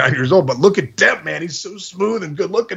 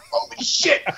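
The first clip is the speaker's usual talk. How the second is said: laughing gasp; 11 semitones higher, 5 dB quieter, slower than usual. Retold or imitated. Shocked at the hair activation.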